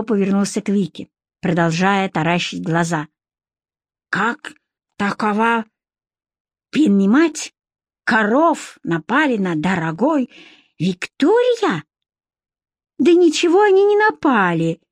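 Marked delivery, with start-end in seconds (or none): 4.1-11.8 a puzzled foreign shopkeeper, drawn out; a hint of a broken-Russian accent; Abdurakhman's voice. 13.0-14.8 high, annoyed cry; exasperated retort; vexed exclamation. Acted. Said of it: "с досадой воскликнула Вика".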